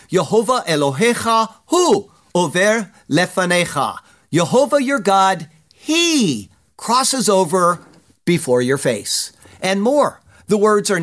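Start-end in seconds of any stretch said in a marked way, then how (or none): 0.1-4.0 "Yehovah Elohecha hu over lefanecha" read out in Hebrew, with stress on "hu". Shown as a demonstration. Preacher reads the Hebrew verse aloud, with a stressed "hu". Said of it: "The words are emphatic". 4.3-9.3 slow, weighty stress on "he crosses over"; emphatic. Shown as a demonstration. Preacher stresses the verse for the congregation, slow and emphatic. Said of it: "The words are emphatic".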